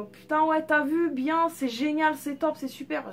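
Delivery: a reluctant, hammed-up imitation of a Marseille accent. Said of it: "J'aime pas du tout imiter ça".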